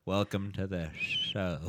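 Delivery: put-on whistly old person voice; a slow, quiet old codger welcoming listeners. Shown as a demonstration. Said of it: "doing an old person voice with a lot of whistly S's".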